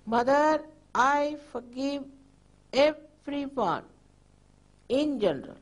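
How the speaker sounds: mean every word, gently; from the heart. Shown as a demonstration. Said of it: "just say it from your heart".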